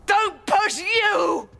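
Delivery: slow, high shouted echo; furious shout. Acted. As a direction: throw his words back, outraged. Echoes his warning furiously.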